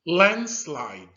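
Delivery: landslide called out clearly and loud; model word, loud. Shown as a demonstration. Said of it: "Can you say that with me?".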